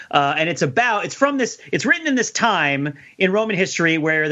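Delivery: imitating a know-it-all lecturer; lightly mock the professor's lecture tone; lecturing professor. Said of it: "And the professor said".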